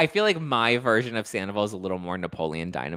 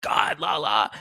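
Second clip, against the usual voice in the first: whispered Sandoval catchphrase; slower than usual. Retold or imitated. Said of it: "He always did the".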